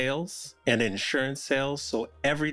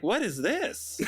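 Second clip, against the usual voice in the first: laughing version; 8 semitones higher, slower than usual. Retold or imitated. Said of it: "And then it's like".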